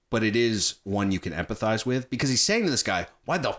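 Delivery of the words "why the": high-pitched exasperated imitation; retold frustration. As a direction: act out demanding an answer, pitch climbing on the repeat. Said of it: "he's frustrated with this guy".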